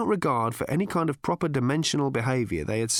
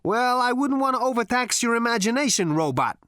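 high, sarcastic swagger; cocky Zaphod voice; 11 semitones higher, 4 dB louder than usual. A narrator's reading. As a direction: tease the robot with lazy contempt. Zaphod mocks the robot.

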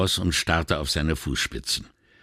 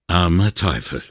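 sighing; 3 dB louder than usual. A narrator's reading. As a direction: breathe it out with weary pity. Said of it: "seufzte Vianello".

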